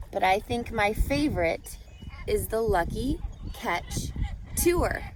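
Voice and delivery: lilting rhyming read-aloud voice; reading to children. A narrator's reading. Teacher reading a rhyming book to students, storybook lilt. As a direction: read the rhymes to the class with a gentle bounce.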